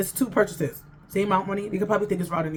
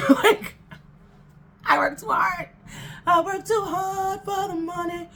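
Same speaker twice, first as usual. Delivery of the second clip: exasperated outburst; 8 semitones higher, slower than usual. Real, not acted. Ranting about hard-earned money.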